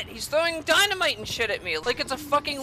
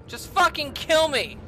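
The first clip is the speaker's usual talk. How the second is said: exasperated plea; 3 semitones higher than usual. Real, not acted. Gives up in the game.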